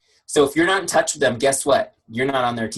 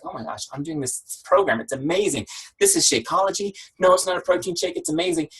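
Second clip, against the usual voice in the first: higher-pitched gushing enthusiasm; excited customer; 6 semitones higher than usual. Retold or imitated. Customer telling office coworkers about her program, excited. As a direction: gush about it like a thrilled customer. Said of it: "She's excited about it".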